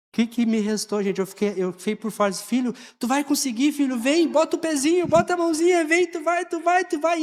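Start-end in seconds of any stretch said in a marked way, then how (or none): 2.4-7.2 coaxing encouragement. Retold or imitated. Coaxing scared son out of playground.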